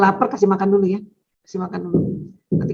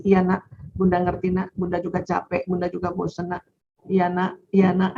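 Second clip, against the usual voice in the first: 1 soothing mother; 2 semitones lower, 4 dB quieter than usual. Retold or imitated. Mother validating child softly.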